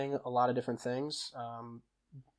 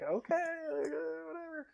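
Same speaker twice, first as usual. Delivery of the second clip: resigned mom; 6 dB quieter, slower than usual. Retold or imitated. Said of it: "And she's like".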